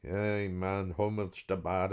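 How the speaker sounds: put-on Geordie accent. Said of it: "my merry Geordie way".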